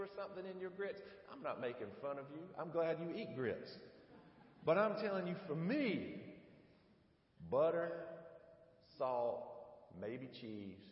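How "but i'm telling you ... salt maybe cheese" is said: emphatic insistence. Real, not acted. Emphatic list of grit toppings.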